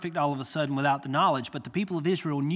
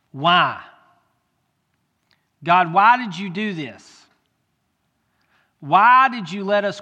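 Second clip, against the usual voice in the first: anguished crying out; 4 semitones higher, 7 dB louder than usual. Acted. Israelites on the ground begging God, loud lament. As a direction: wail the question up to heaven.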